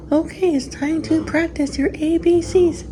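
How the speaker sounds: high, slow sing-song teacher voice. Shown as a demonstration. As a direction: talk like a kindergarten teacher to little kids. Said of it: "put on my teacher hat with my teacher li-, voice".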